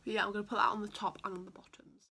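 talking with mouth open; applying mascara. Real, not acted. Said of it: "I have to do it with my mouth open".

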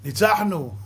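a fan's cheer, imitated with a laugh; mock victory cheer. Preacher mocking a fan cheering a win, mock cheer. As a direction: crow it like a football fan.

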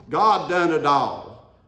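slow, loud proclamation. Acted. Preacher to congregation, loud slow proclamation. Quiet then loud repeat.

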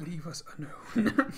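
frog speech. Pretend. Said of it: "imitate frog speech".

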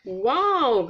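a wide-eyed little wow; gasped wow. Acted. Peppa and George, amazed by Kylie's jump, gasp a wow. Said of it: "gasped Peppa and George".

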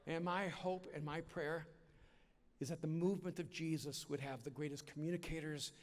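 slow, earnest preaching climax; slow sermon close. Acted. Preacher urging the audience in a slow, earnest close. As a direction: lean in and plead slowly with the crowd.

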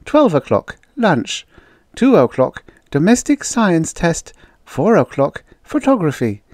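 acted reading of an agenda; reading aloud. A narrator's reading. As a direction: announce each item off a sheet. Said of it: "read from it aloud".

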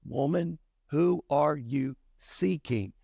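lightly voiced Jesus, unhurried; Jesus's question. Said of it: "And Jesus asked her".

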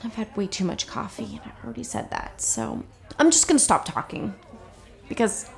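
halting, awkward confession; nervous. Acted. Flustered dater admitting attraction to her date, nervous. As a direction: stumble through it, voice dipping soft on the asides. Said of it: "you make me really nervous".

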